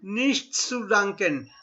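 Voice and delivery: slow Nichts zu danken; deliberate demo; slow model phrase. Shown as a demonstration. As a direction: repeat it carefully for learners. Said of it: "Try and pronounce every alphabet".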